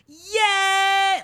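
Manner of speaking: high, loud, overjoyed yeah; mock delighted girlfriend gushing yeah. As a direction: squeal it like she can't believe her luck. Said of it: "She's just like".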